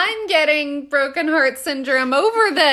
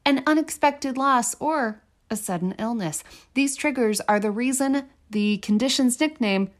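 news anchor voice; 4 semitones lower than usual. Acted. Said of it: "did I sound like a news anchor when I was reading that?".

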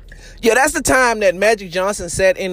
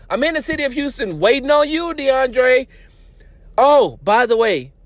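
lightly voiced pleading suitor; a hint of an eager, clingy admirer; Mark Cuban; 5 semitones higher than usual. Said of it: "sending, uh, messages to DeAndre Jordan".

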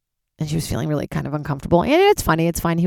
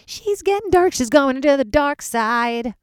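high then slow teasing doom voice; playfully spook the audience; hammed-up dark-side tease; mock ominous; 9 semitones higher, slower than usual. Spooky teasing about herself.

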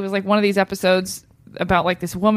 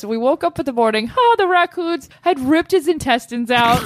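island lady voice; 3 semitones higher than usual. Retold or imitated. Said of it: "That's what she sounded like to me".

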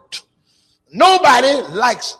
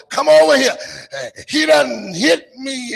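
mock distress call; 5 semitones higher than usual. Woman calling her mama to stir up the family, mock crying. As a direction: fake sobbing shout for sympathy.

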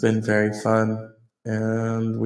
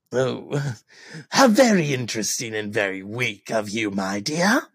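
lightly voiced Joker, scornful; a hint of the sneering Joker. Joker sneering at Harley, lightly voiced.

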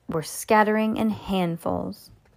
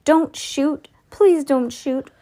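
higher-pitched plea, drawing out the please; urgent pleading; 8 semitones higher, 4 dB louder, slower than usual. A narrator's reading. Greggs begging the ducks not to shoot, urgent pleading. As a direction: beg them urgently not to fire.

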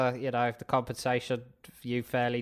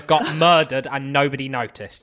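cheeky rant; 2 semitones higher, 7 dB louder than usual. Acted. Rising cheeky rant at guard.

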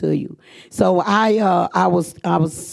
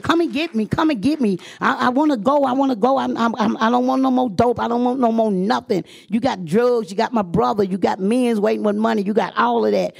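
higher, urgent begging; desperate plea; 4 semitones higher than usual. Retold or imitated. Woman on the phone begging to be picked up, high and urgent. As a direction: beg to be taken away, pitched up.

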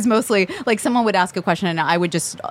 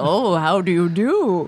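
slow, put-on English accent; drawn-out English-accented hostess greeting; slower than usual. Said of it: "you did an English accent".

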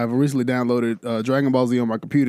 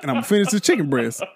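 rushed dismissal; 6 semitones higher, much faster than usual. Retold or imitated. Brushing off kid quickly.

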